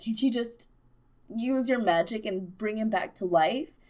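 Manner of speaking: a hint of a blunt, plain-spoken Davos; half-hearted Davos asking the obvious; lightly voiced Davos. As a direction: Davos nudging Melisandre, lightly acted. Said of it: "asking the real questions, like".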